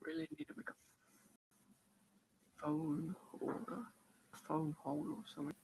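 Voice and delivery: faint, distant from the microphone; far from mic. Real, not acted. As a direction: speak well away from the mic. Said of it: "I just sound like I'm too far away".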